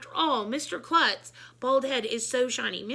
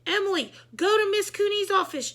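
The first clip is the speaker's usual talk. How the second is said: high loud commanding shout; 9 semitones higher, 7 dB louder than usual. A narrator's reading. The teacher ordering Emily out, a loud commanding shout. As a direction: order her out. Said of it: "shouted Miss Daisy".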